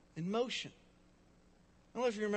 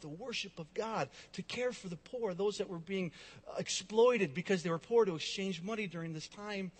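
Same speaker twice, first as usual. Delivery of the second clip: ordinary talk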